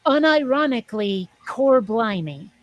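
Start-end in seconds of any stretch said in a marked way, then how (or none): 1.5-2.5 slow Cockney phrase; British accent. Retold or imitated. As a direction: drawl it like a Londoner. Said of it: "heard a British person say".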